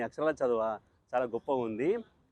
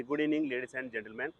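announcer greeting; 3 dB quieter, much slower than usual. Acted. Formal greeting to the audience.

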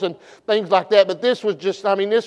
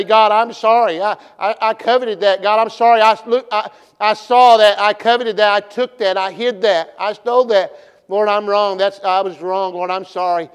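pleading sinner on his knees, a bit louder; repentant prayer; 4 dB louder than usual. Pretend. Sinner confessing to God, pleading prayer. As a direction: cry out sorry to God.

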